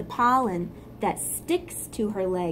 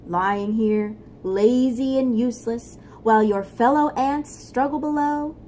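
scolding inner voice; 2 semitones higher, 4 dB louder than usual. Acted. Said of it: "Floyd voice said".

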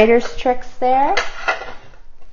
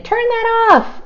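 a mock stern lady, much higher, snapping Turn that off; bossy woman. Teacher retelling the lady at the movies, mock high bossy voice. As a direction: squeak it up like the annoyed woman in the cinema. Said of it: "she was saying".

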